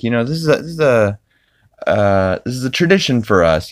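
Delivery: pleading Peter. Retold or imitated. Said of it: "He's like".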